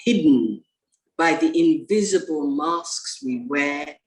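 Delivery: measured poetry reading with deliberate pauses between phrases; poem recital. Acted. Poet reading a poem about the virus to colleagues, measured recital. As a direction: recite it line by line, letting key words stand alone.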